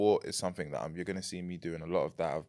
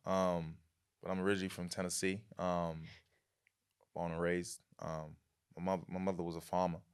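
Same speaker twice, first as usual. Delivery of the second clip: American accent; 5 dB quieter than usual. Shown as a demonstration. Guest showing the host his Tennessee character, in an American accent. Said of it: "Can you do an American accent".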